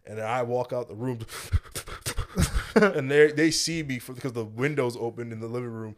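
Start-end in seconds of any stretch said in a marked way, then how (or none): 1.2-2.7 breath-only mock sobs; imitated sobbing. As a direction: act out sniffling after a cry. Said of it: "So they heard me cry".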